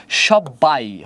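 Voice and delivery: "সব্বাই" with both b sounds kept, shob-bai; b-phala fully sounded. Shown as a demonstration. Teacher showing students the kept b-phala, "সব্বাই" with double b. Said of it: "মানে অক্ষত রয়ে গেছে আগের মতোই".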